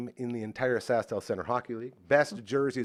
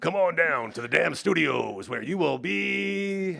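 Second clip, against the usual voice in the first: slow, high, raspy, stretched-out monster truck announcer call; 6 semitones higher, 4 dB louder than usual. Joking after a monday plug, putting on a monster truck announcer voice. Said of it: "I was trying to do the monster truck guy".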